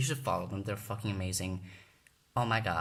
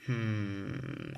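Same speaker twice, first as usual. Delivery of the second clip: imitated thinking hum. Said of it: "she was thinking".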